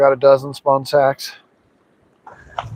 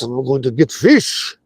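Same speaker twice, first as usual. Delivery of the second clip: mock Russian accent; a hint of Russian accent. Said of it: "I'm going to use my Russian accent".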